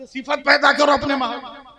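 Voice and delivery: high, loud call, hammering पैदा; loud preaching. Real, not acted. Preacher urging listeners to build this spirit, loud and high. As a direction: lift पैदा high and loud to rouse the hall.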